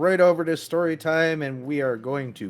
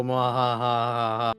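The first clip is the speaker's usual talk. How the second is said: mock evil laugh; slower than usual. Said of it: "I am here to make things horrible".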